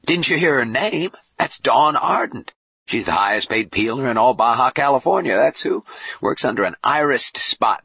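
animated showman bishop; boastful bishop. Acted. Boone tells Jubal about Dawn's act, boastful and animated. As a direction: talk her up with swooping pitch.

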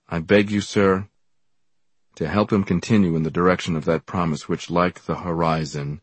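stately, oratorical phrasing; formal letter reading. A narrator's reading. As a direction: read out an official letter with deliberate emphasis. Reads the letter aloud.

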